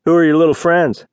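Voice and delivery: lightly condescending drawl. A narrator's reading. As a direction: drawl it, belittling them. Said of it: "Cole drawled".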